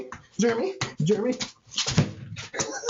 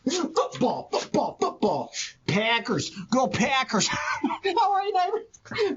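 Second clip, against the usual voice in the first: high, bright hollering hello over the fence; high-pitched hey neighbor, laughing and shouting; excited neighborly greeting; 9 semitones higher, slower than usual. Acted. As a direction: call out to your neighbor with big cheer, pitched way up.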